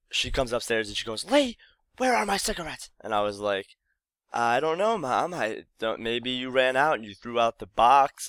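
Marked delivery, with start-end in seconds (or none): 1.2-2.9 a pointed, suspicious question to her son; mom demanding. Retold or imitated. Mom confronts son upstairs. 4.3-8.3 playing stupid. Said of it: "I was playing stupid".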